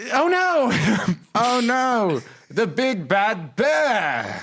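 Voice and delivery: very high Saturday-morning cartoon voiceover. Acting out a Saturday-morning cartoon scene with a partner, in a Saturday-morning cartoon voice. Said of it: "Saturday morning cartoon voiceover artists".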